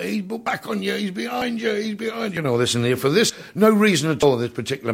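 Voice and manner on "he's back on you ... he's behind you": mock panto shout. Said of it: "they're all shouting out".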